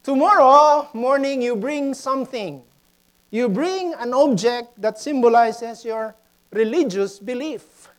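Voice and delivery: lightly acted teacher's instruction; teacher addressing class. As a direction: announce the homework to the schoolchildren. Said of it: "the teacher said".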